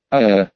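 low noisy exhale after a shot; loud exhale after strong drink. Acted. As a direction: let out a long burning exhale. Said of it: "шумно выдохнул он".

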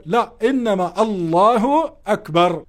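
الله أكبر with the u of the ضمة, slow; correct with damma. Shown as a demonstration. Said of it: "لفظ الجلالة عليه ضمة".

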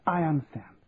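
hushed secret whisper. Acted. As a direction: breathe it under your breath. Secret talk after Charlie's shh.

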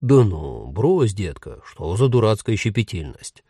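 lightly voiced cocky ghost; smirking ghost husband. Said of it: "ухмыльнулся Пауль".

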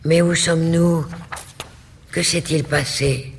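startled, glad outburst; joyful exclamation. A narrator's reading. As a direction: cry out in astonished relief. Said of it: "Elle s'écrie".

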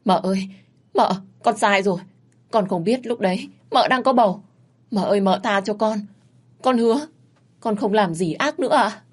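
high, pleading begging for mercy; tearful pleading. Acted. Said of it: "khóc lóc và van xin".

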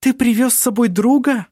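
high chirpy twitter; chirping. A narrator's reading. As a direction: chirp the question like a bird. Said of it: "прощебетала она".

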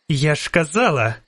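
gasped out while winded; breathed out. A narrator's reading. Milva breathing out hard, winded from whipping. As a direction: exhale it after the fight. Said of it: "видихнула Мільва".

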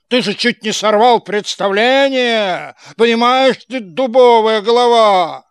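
loud angry yell. Acted. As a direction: bellow the insult. Karabas yelling at puppet.

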